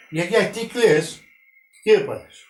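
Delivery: slow, loud, high call from the window; calling out to grandma. Retold or imitated. Boy shouting from the window to his crying grandmother, slow loud call. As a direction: call down to her, drawn out and worried. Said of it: "της φωνάζω".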